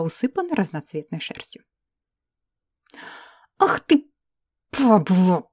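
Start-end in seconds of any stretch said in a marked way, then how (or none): 3.6-5.5 angry curse, hissed out a bit louder. Acted. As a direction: spit «падла» out in irritation. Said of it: "прошипела я на ходу". (злобно прошипеть «Ах ты, падла!»)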